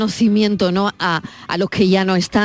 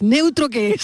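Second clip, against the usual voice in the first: higher, mock-baffled "¿Neutro qué es?"; incredulous scoff, pitched up; mock puzzled; 4 semitones higher, slower than usual. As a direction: ask "¿Neutro qué es?" as if the word makes no sense, pitched up. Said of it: "Y ahora, y ahora piensas".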